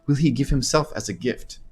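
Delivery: put-on lilting Khajiit accent with questioning rises. Anasi flirts and asks the player for a gift, Khajiit accent. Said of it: "is this a good Khajiit accent?".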